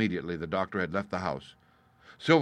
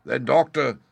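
pirate voice; 6 semitones higher, 10 dB louder than usual. A narrator's reading. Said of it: "said Silver".

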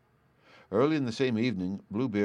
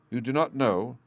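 stern; 3 semitones higher, 3 dB louder than usual. Acted. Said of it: "said Bluebeard sternly".

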